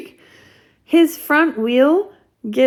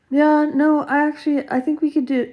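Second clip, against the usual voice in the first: mock eager brother; 6 semitones higher than usual. Mimicking brothers pushing idea.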